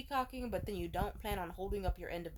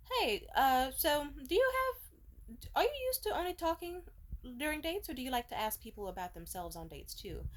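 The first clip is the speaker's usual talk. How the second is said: mock polite question; 6 semitones higher than usual. Her pointed question to date.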